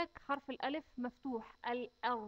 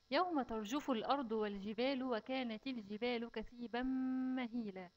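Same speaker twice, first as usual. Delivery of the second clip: slow, measured tajweed chant; measured recitation of the verse; slow Quran recitation. Shown as a demonstration. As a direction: recite it carefully for the children. Recites verse before explaining.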